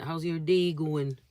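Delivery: light, drawn-out Canadian accent; Toronto-like Canadian accent. Shown as a demonstration. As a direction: put on a hint of Toronto accent. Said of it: "like, Canada accent".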